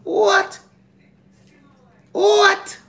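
high-pitched disbelief building to squealed "What?"; incredulous. Real, not acted. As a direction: question it high, then shoot way up in disbelief. Incredulous reaction to a claim.

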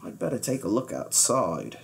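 low, soft muttering to himself; murmuring. A narrator's reading. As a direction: say it quietly under the breath. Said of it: "he murmured".

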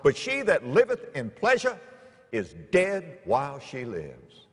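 scripture reading. Acted. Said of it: "what the Bible says".

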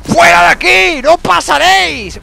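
high, loud defiant yell; battle shout. Real, not acted. Gamer yelling at trolls during the fight, defiant. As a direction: roar at the monsters to hold the line.

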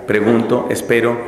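lightly acted fretting, low-pitched; fretting inner monologue. Poor confessor wondering what to do while she is silent, mild fretting. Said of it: "el pobre varón a preguntarse".

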